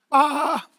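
mock lamb baa; lamb bleat. Answers what a lamb says.

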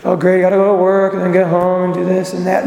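mock dreary, monotone grumble; weary morning grumble. Preacher mimicking someone waking up to another day, dreary. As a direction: drone through it, unexcited about the day. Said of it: "We should not be waking up and going".

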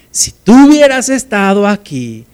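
"tú" punched high, reproachful; reproachful stress on tú. Acted. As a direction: lean hard on "tú" as a complaint. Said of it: "pero el reclamo es el mismo".

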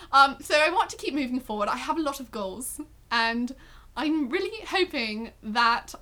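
attempted British accent, measured interview voice; lightly put-on British accent, halting. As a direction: try a British accent for an earnest answer. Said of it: "just have to take a British accent".

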